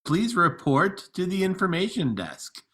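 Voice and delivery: page them over the speakers; airport announcement. Acted. Paging John and Jason.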